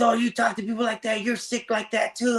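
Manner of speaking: very high, whiny imitation of the daughter; mocking daughter. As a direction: pitch way up to mock her accusing. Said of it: "But she goes".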